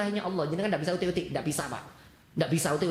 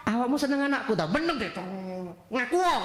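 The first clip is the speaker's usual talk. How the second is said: pressing for a confession; 3 semitones higher than usual. Acted. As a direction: press him to own up, mock-stern. Kiai presses santri to confess.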